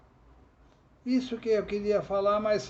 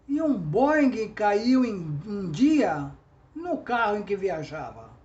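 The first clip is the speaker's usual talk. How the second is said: recited trova. Shown as a demonstration. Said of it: "essa é uma trova humorística".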